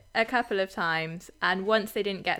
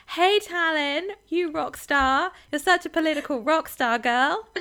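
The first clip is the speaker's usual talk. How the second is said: gushing pop-duo fan voice; 9 semitones higher, 5 dB louder than usual. Pretend. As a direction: coo it out like an over-excited celebrity twin. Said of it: "they'd be like".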